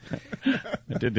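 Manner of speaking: talking with the hiccups. Real, not acted. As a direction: speak between hiccups. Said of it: "I do have the hiccups".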